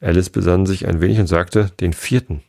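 lively read-aloud storytelling; story narration. A narrator's reading. Reader telling Alice to sleepy listeners, lively narration. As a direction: read it to children at bedtime.

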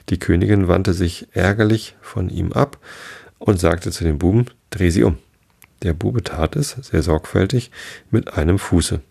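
measured read-aloud with lightly voiced dialogue; story narration. A narrator's reading. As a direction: read a bedtime story with lively pitch on the characters.

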